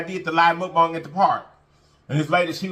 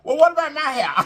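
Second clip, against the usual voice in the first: higher, playfully offended inner voice; mock jealous aside; 11 semitones higher, 4 dB louder than usual. Narrator voicing her own wry thought after the compliments, pitched up playfully. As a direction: pitch it up as a jokey hurt question. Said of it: "I said".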